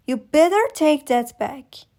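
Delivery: angry mother yelling at her husband. Acted. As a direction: fire it back at him, loud and stung. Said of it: "I yell at him".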